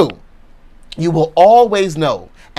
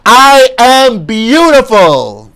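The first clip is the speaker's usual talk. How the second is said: slow, loud, higher ringing affirmation; top of your lungs; 6 semitones higher, 5 dB louder, much slower than usual. Shown as a demonstration. Preacher leading the crowd at top of their lungs, slow and loud. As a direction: shout it out, fist in the air. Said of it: "top of your lungs".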